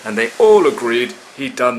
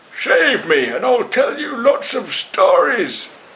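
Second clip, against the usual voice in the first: spluttering gasp, pitched very high; 12 semitones higher than usual. Narrator reads the big monkey getting his head above water, gasping.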